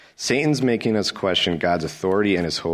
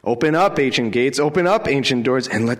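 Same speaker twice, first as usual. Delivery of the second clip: higher, louder ringing call; triumphant proclamation; 5 semitones higher, 3 dB louder than usual. Real, not acted. Preacher repeating the psalm call, higher and louder. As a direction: call the gates open.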